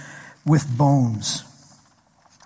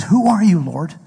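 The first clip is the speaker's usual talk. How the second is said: startled question; 2 semitones higher, 3 dB louder than usual. Retold or imitated. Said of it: "And he says".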